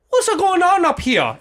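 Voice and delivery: high, loud, drawn-out imitated Asian accent. Imitated flight attendant entering the cockpit, Asian accent. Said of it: "was this Asian woman".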